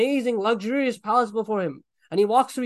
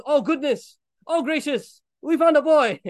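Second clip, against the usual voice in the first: excited discovery; 4 semitones higher, 4 dB louder, slower than usual. Acted. Caravan man finds boy in well.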